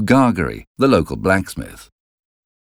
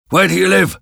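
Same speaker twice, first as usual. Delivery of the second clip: raised, demanding convict voice; menacing convict; 12 semitones higher, faster than usual. A narrator's reading. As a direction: interrogate the boy, pitched up. Convict questions the boy.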